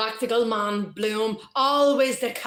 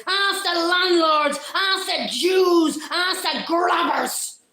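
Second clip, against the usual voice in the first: slow, higher, hammering each target; angry rant; 5 semitones higher than usual. Acted. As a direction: build the grievance with scorn. Citizen rants, rising.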